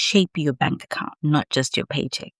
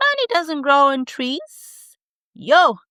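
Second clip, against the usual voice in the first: mock parent repeating money warnings, higher; nagging parent; 10 semitones higher than usual. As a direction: mimic a lecturing mom, pitched up. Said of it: "If you grew up hearing things like".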